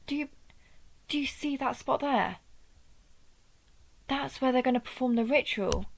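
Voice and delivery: realising the danger as they speak; rising alarm. Acted. Warning the child of Rickard about the ritual, with rising alarm.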